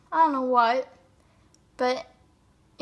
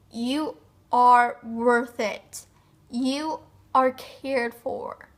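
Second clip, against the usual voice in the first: slow, firm, weighted words; emphatic reassurance; 2 semitones lower, 4 dB louder, slower than usual. Real, not acted. Speaker urging a depressed viewer to feel worth, emphatic reassurance. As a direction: press each word home, slowly and firmly.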